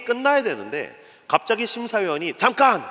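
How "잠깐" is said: higher call to halt; imitated judge's interruption. Judge stops the game suddenly, imitated interruption. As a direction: cut in like a show judge. Judge halts the cooking show.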